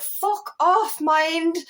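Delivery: high-pitched dismissal; exasperated telling-off. Acted. Telling her own mind to back off, exasperated. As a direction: push the thought away, pitch jumping up.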